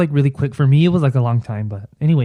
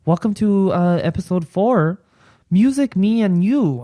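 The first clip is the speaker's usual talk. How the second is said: bright show intro; 6 semitones higher than usual. Real, not acted. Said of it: "announcing the episode title".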